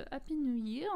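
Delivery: "Happy New Year" said with a heavy French accent; English words in a thick French accent, h dropped. Real, not acted. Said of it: "Mon accent est catastrophique".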